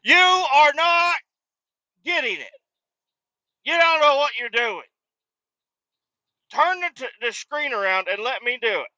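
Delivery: demanding to take over the register; dad yelling to turn the screen around; exasperated dad. Retold or imitated. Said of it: "My dad's like".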